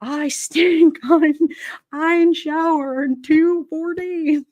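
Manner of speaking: a light high-pitched mock of her bragging. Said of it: "she tells people, like".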